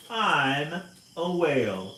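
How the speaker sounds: slow, loud, weighty whale. Acted. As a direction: let the whale announce itself slowly. Whale answers in story.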